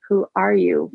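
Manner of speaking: words pushed out through clenched teeth; through gritted teeth. Acted. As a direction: hiss it through gritted teeth in barely held anger. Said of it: "I repeated through gritted teeth".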